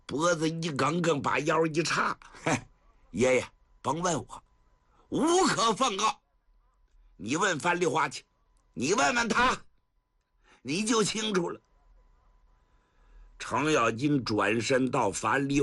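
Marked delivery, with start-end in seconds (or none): 2.4-11.6 cocky, dismissive retort; brazen self-righteous. Acted. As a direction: sure he is in the right. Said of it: "薛丁山理直气壮". (理直气壮地顶回去)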